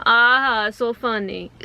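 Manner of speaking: attempted Jamaican accent; lightly voiced, muddled Jamaican accent; Jamaican manager. Employee quoting her amused Jamaican store manager, lightly attempted Jamaican accent. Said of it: "It was Jamaican, but with a Russian accent".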